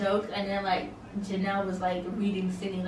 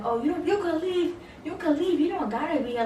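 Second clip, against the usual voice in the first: higher, mock snippy dismissal; imitating hot-headed Sarah; 7 semitones higher than usual. Vlogger imitates Sarah brushing Seven off, mock snippy. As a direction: toss it off like you want her gone. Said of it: "talking kinda hot".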